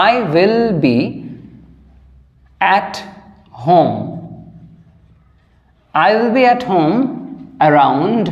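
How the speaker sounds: long pauses between each word; word-by-word dictation. Shown as a demonstration. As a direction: dictate slowly as if students write. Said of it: "তো সেই সেন্সে I will be".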